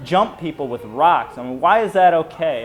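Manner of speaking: mild retold yell, stretched words. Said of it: "I start yelling at 'em".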